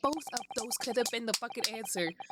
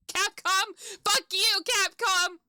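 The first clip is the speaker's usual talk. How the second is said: high, loud curse at the company; angry yelling; 7 semitones higher, 5 dB louder, slower than usual. Real, not acted. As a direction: yell up at the game's makers, outraged. Yelling curses at game's maker.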